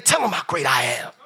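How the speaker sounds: firm commanding proclamation; commanding God. Acted. Preacher voicing God's demand.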